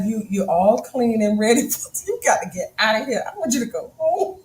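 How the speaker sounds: mock-stern playful push out the door; a hint of a bossy wife shooing him; teasing eviction. Wife shooing husband back to work, playful. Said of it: "I was like".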